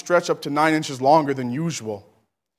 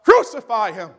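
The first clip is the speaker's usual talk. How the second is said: rising furious crowd shout, much higher and louder; yelling mob; 12 semitones higher, 4 dB louder than usual. Acted. Preacher voicing the mob demanding death, full shout. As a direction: scream it like the baying crowd. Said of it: "They yelled out".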